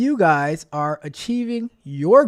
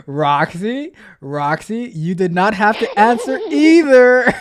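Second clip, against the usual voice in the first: laughing protest; 5 semitones higher, 9 dB louder, slower than usual. Real, not acted. Cracking up at Roxy's reply.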